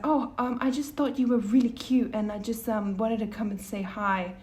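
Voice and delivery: mildly taken aback, stumbling retold compliment; a bit shocked. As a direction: imitate a slightly startled, hesitant admirer. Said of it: "a bit shocked".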